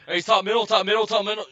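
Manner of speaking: loud, high, urgent callouts; mock game callouts. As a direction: shout enemy positions to your team.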